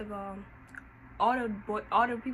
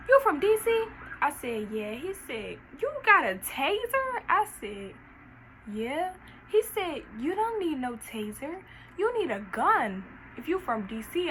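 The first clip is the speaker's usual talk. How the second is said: joking guard; 5 semitones higher, 4 dB louder than usual. Retold or imitated. Guard jokes about DC.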